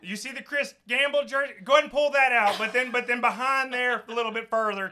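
bossy relative. Pretend. Joining the bit, bossing them around the kitchen. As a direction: point out where things are, bossily. Playing along in character.

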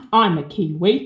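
mock botched New Zealand accent; a Londoner badly attempting a Kiwi accent; Michael Caine. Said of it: "Michael Caine trying to do a New Zealand".

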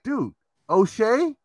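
high, laughing disbelief; mock outrage over a name; incredulous. Incredulous retold retort, laughing.

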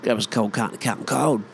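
quick Aussie tongue-twister; rapid, slurred Aussie beer order; broad Aussie order. Acted. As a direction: reel it off fast in thick Aussie. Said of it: "used to always love that".

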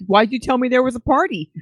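a touch of put-on disappointment; lightly acted disappointed question; mock disappointed. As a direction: play mildly let down. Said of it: "All disappointed".

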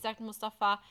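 ordinary talk, nothing marked

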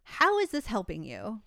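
a hint of silly self-talk, pitch swooping up then falling. Shown as a demonstration. Showing how to talk back to your own thoughts, mildly silly voice. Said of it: "use a silly voice that's like".

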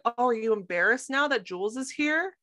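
lightly voiced mom needling her child; mock-concerned mom. Mom teasing Rue about Jules, mock concern. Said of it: "her mom being like".

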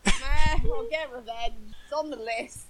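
shrugging, bored mock revenge line; mock indifferent. Mocking the hero's shrug over revenge, mock bored. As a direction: toss it off like a chore. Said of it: "But it was like".

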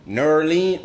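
"Nerlin" clipped into one fancy word; mocking fancy pronunciation. Mocking outsiders who say "Nerlin". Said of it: "try to size it and be like".

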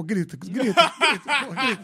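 chuckling through repeated words; laughing as the flesh keeps crying out; laughing repetition. Real, not acted. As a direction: let the laugh break the words.

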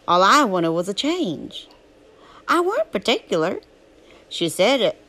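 Huck's southern drawl, telling his story; southern storytelling voice. Acted. Reading Huckleberry Finn aloud to a drowsy listener, southern narration. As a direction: read it as a folksy southern tale.

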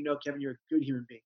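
quick, soft reassurance to himself; understated, softened self-affirmation; positive self-correction. Retold or imitated. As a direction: correct the inner critic quietly and quickly. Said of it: "into something positive about yourself".

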